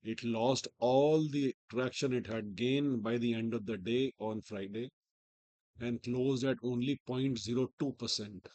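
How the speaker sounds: hoarse, strained from a sore throat. Real, not acted. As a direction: talk through a sore throat. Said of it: "I have a sore throat".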